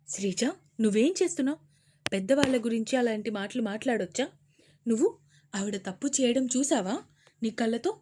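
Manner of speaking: fast, stern scolding. Acted. Mother reprimanding her daughter, stern.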